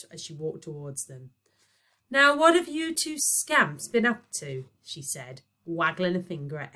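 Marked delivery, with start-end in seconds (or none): 2.1-4.7 mock scolding mum. Mock mother scolding kids.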